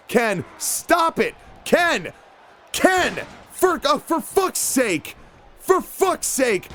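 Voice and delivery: slow, fed-up shout; exasperated yell. Real, not acted. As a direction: drag out the frustration. Exasperated yelling at Ken.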